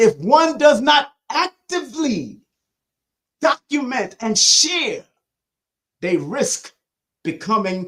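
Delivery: unhurried, careful, deliberate, slowed reading aloud. Repeating a passage for listeners a second time, reading it slower. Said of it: "Let me read it slower".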